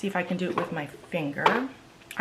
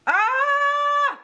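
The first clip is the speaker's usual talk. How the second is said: long, high squeal; frustrated scream. Real, not acted. Alone at mirror after another failed fix, frustrated scream. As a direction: squeal out your exasperation.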